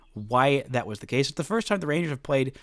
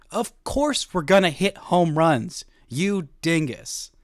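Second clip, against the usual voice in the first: louder, slow teasing put-down; mock exasperated shout; 3 semitones higher, 5 dB louder, slower than usual. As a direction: hammer it home like a cocky slugger. Imagined Garcia scolding host.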